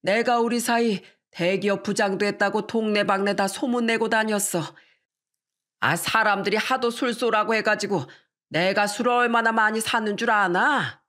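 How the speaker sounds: lightly voiced proud father-in-law; grumble-boast as the father, lightly acted; a hint of an older man bragging; boastful father-in-law.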